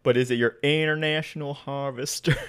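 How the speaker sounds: laughing mock-Southern twang; Southern accent. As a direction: tease along in a country accent. Joining the Southern farmer bit.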